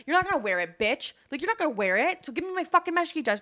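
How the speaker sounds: rising, feisty mock threat; mock confrontation. Confronting a thief over a birthday dress, mock anger. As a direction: square up to the thief, half in play. Imagined fight with the package thief.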